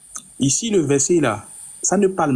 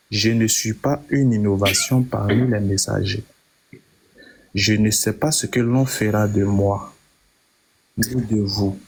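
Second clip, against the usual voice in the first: slow, lower verse reading with long pauses; reading slowly; 8 semitones lower than usual. Shown as a demonstration. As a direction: read it slowly, weighing each phrase. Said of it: "je vais lire doucement comme vous voulez". (lecture lente et posée, voix plus grave)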